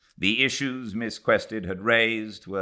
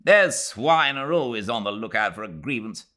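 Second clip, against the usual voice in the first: louder, placating sneer; soothing agreement; 6 semitones higher, 5 dB louder than usual. Acted. Leslie appeasing Mrs Turton, a touch of scorn. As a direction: side with her to calm her. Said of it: "to propitiate her".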